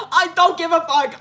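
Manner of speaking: high, loud mocking impression; mock his tough act. Mocking his bravado loudly.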